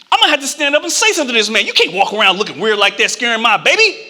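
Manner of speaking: very fast rush; agitated rant. Retold or imitated. Anxious dad rushes his plan to confront the stranger. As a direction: rattle it off in a panic. Father's agitated inner thoughts.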